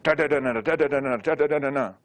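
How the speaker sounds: brisk chanted Ta, ta, da, da, na. Shown as a demonstration. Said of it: "So let's do this one".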